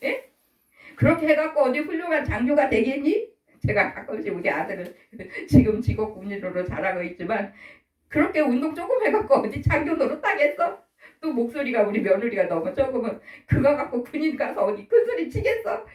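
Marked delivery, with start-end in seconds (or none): 0.0-3.3 higher-pitched nagging questions; mock nagging. Mother nagging her son about becoming an officer, nagging. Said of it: "그냥 막 잔소리하는 거야". 8.1-10.8 higher-pitched teasing nag; retold nagging. Parent nagging soldier son about exercise, playful nagging. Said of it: "그냥 막 잔소리하는 거야". 13.5-15.9 higher-pitched mock nag; retold nagging. Parent nagging about a small voice, playful nagging. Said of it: "그냥 막 잔소리하는 거야".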